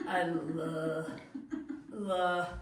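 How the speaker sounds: laughing. Acted. Laughing through a forced confession.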